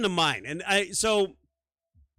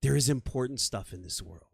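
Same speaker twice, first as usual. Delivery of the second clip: bad acting; 5 semitones lower, 3 dB quieter than usual. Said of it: "I'm like".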